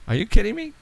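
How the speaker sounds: high, incredulous; can't believe it's failing again; exasperated disbelief. Real, not acted. Phone keeps failing.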